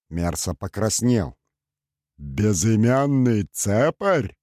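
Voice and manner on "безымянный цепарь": slow, mock roar of outrage; a mild hammed-up roar. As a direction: bellow it slowly at the newcomer. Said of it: "взревел бедокур".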